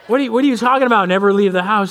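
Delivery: what are you talking about, fast and stunned; incredulous dad. Retold or imitated. Dad stunned his son never wants to leave home. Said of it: "And I'm like".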